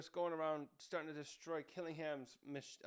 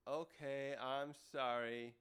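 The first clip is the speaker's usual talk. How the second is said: slow, subdued mock apology; sheepish apology; 3 semitones lower, slower than usual. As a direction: apologize like someone just told off. Acts scolded Luffy apologizing meekly.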